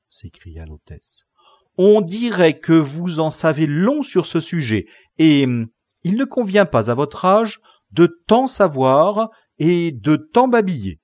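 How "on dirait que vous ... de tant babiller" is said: a touch louder, scolding mother; mild scolding mother. A narrator's reading. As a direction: scold the chatty girl, understated. Hostess scolds daughter.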